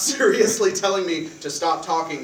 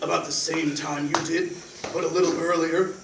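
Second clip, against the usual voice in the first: agent voice; 5 dB louder than usual. Acted. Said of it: "This agent voice is super cool".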